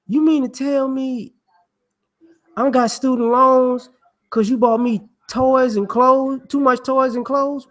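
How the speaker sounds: put-on indignant kid. Grown kid outraged at parents.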